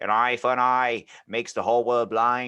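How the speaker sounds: put-on 1960s Boston politician voice. Quoting a speech about hidden societies: JFK impression. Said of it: "That was really good impression".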